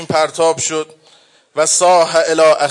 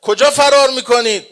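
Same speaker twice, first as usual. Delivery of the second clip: grieving shout; 5 semitones higher than usual. Acted. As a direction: call after them in anguished rage. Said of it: "ابو عبدالله فریاد زد".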